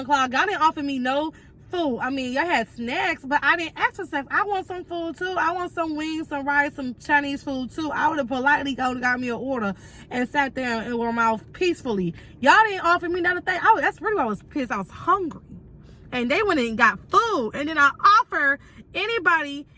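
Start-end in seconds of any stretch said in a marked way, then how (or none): 4.3-7.9 higher, whining want; whiny craving. Retold or imitated. Whining about wanting food. 12.4-15.4 quick, raised, fed-up complaint; fast exasperated rant. Real, not acted. Heated rant about hunger.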